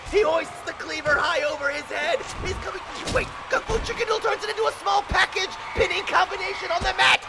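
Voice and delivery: rising, shouted ringside play-by-play; wrestling commentator. Acted. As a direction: call the big moves to the crowd.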